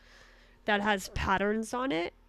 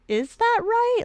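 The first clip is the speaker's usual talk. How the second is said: puzzled, sharply high-pitched; second-guess yourself aloud; doubting high question; 14 semitones higher, 5 dB louder, slower than usual. Retold or imitated. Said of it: "I'm just like".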